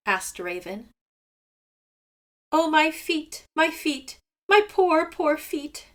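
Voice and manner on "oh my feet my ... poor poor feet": high, loud wail over his feet; crying in pain. A narrator's reading. Seagull crying to Raven about his sore feet, high wail. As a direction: moan it like a hurt bird. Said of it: "cried Seagull".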